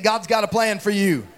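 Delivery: firm, emphatic declaration; like you mean it. Shown as a demonstration. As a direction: say it with real conviction. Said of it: "say it like you mean it".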